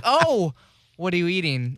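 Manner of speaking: hammed-up disapproving "what are you eating"; judgy mock question. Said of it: "the comments that are like".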